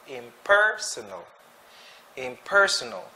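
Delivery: "Impersonal" with a strong PER; stress on second syllable. Shown as a demonstration. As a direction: punch PER in "Impersonal", let the rest fall away. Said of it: "the stress is in the second syllable".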